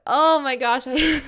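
loud laughing exclamation. Real, not acted. Laughing end of story.

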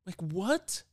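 high-pitched, incredulous inner outburst; freaking out. Acted. Host voicing her real mind over the snake, freaking out. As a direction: play up the panicked disbelief. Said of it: "real mind, I'm freaking out".

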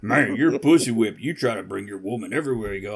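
light redneck twang, teasing impression; mock redneck accent. Friend ribbing a man about his woman, mock redneck accent. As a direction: put on a joking redneck accent. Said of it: "Always making fun of the rednecks".

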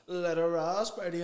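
high, slow, drawn-out goading call; half-robot dare. Retold or imitated. Retelling his mate's half-robot move and dare, goading high and slow. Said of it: "like half a robot and went".

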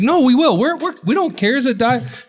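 1 quoting the wife. Retold or imitated. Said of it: "And she's like".

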